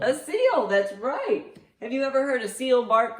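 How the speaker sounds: high delighted praise; excited praise. Real, not acted. Grandma cheering a correct answer for Grandma Lou.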